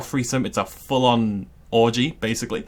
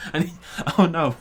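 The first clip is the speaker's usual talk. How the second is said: higher, laughing plea for help; laughing distress; 5 semitones higher than usual. Real, not acted. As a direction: plead through your own laughter. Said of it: "I actually feel like I'm dying".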